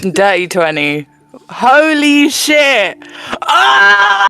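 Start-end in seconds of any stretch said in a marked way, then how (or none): 1.5-4.3 real laughter through the words, much higher; laughing. Real, not acted. Player laughing at the bad roll, real laughter. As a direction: laugh it out in disbelief.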